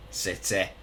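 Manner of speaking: "City" said in a tentative Mancunian accent. Shown as a demonstration. Player's hometown explained to viewers, in a tentative Mancunian accent. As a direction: try out a Manchester twang on "City". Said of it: "I don't know if that's a good Mancunian accent".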